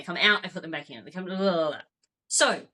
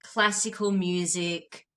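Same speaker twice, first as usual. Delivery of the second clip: soothing; 4 semitones lower, much slower than usual. Pretend. Painting a calm bedtime scene.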